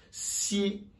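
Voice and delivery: "Si" as the Chinese x, soft "shi"; Chinese x sound. Shown as a demonstration. Teacher contrasting x and s for learners, Chinese pronunciation. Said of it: "il y a une différence".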